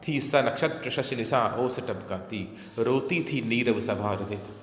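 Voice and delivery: measured, rhythmic verse reading; poetry recitation. Acted. Teacher repeating the poet's starlit night couplet, measured recitation. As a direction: recite the couplet in steady metre.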